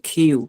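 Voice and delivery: "কিউ" with kh instead of k; breathy k, then yoo in "কিউ"; aspirated Q. Shown as a demonstration. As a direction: puff of air opening "কিউ". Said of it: "খর মতো করে উচ্চারণ হবে".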